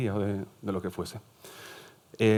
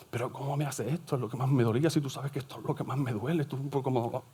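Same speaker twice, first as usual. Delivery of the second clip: exaggerated hurt; 4 semitones higher than usual. Teacher imitating a manipulative person's reproach, exaggerated hurt. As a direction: play a manipulator making a drama of a trifle. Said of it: "eso es la hipérbole".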